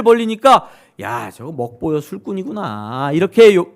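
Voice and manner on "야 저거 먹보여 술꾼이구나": sarcastic jeer. Retold or imitated. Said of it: "막 비꼰다는 거예요".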